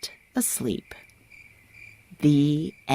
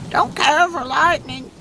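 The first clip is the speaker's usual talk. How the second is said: nervous goose; 8 semitones higher than usual. A narrator's reading. Goose admits fear of lightning, high and fretful. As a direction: fret about the storm as a goose. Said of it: "said Goose".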